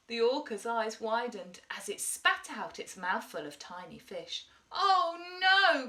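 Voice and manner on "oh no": higher, louder startled gasp. A narrator's reading. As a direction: gasp in shock. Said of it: "gasped Gilbert".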